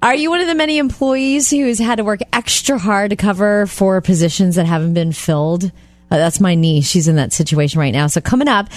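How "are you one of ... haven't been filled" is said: radio tease read. Shown as a demonstration. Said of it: "reads tease, then redoes".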